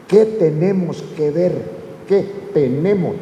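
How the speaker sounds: "tenemos" set apart and emphasised; stress on TENEMOS. Shown as a demonstration. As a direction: spell out "tenemos" deliberately to show the plural. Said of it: "ya dijo aquí en plural".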